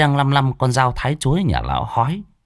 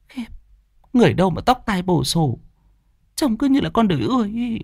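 higher, scornful jeer; disgusted mockery; 11 semitones higher, faster than usual. Wife mocking the vain old man's looks, higher. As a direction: sneer at his messy hair. Cô Hồng mocks him.

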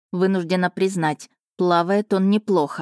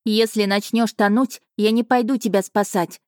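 calling after him; 3 semitones higher than usual. Acted. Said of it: "что я нашлась крикнуть".

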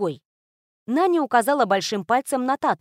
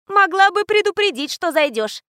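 put-on girl's voice; 9 semitones higher, 5 dB louder than usual. A narrator's reading. Little girl character speaks.

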